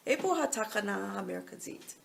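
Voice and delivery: Hebrew with a heavy American accent. Shown as a demonstration. Mother showing her own accent in Hebrew, American accent. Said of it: "very American".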